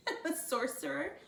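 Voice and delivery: line cracked by a real laugh; laughing through the line. Real, not acted. Reader bitten by her gecko, laughing through the line. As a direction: laugh while reading. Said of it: "She doesn't usually bite".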